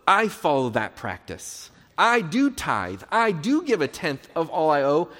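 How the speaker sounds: pompous boast, leaning on each "I"; imitated boasting. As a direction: proclaim your own virtue so everyone hears. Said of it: "he wants everyone to know".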